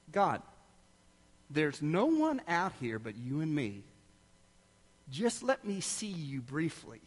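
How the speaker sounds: soft, earnest plea to God; little boy's quiet prayer. Retold or imitated. Boy alone in the backyard speaking to God, quiet plea. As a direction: pray quietly, as if alone outside. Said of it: "I remember just saying".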